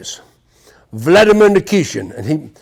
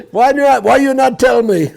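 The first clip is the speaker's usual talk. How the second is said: put-on Russian accent; 6 semitones higher than usual. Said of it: "He goes in there".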